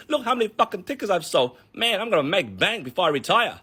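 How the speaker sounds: high, smug mock gloating; gloating seller. Ticket seller counting cash in back office, gloating.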